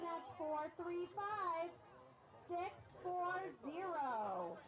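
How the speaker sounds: number read slowly and clearly; slow down and spell out each digit; slow, clear repeat. Shown as a demonstration. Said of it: "Once again".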